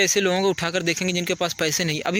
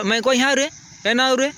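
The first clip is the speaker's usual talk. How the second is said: higher, louder careless "रे" call; rude call; 6 semitones higher, 3 dB louder than usual. Shown as a demonstration. Teacher shows kids the wrong rude way to call. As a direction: fling it out like a rude village shout. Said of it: "गलती हो जाएगा".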